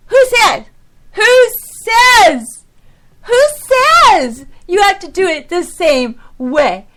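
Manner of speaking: half-yelled sermon, not truly angry. Real, not acted. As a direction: rail at the room like a fired-up preacher. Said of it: "I sound like a yelling old preacher".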